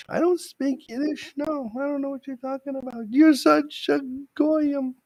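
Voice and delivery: put-on very high, slow Jewish mother accent; New York Jewish accent. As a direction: scold him like a yenta. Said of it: "how long have you spoken Yiddish".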